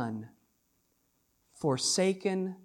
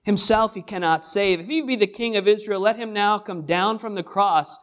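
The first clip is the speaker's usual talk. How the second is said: higher, louder scornful taunting of a crowd; mocking crowd; 3 semitones higher, 5 dB louder than usual. Preacher voicing the mockers jeering at the cross, scornful and louder. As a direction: jeer it up at the man on the cross. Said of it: "the voice of their mocking says".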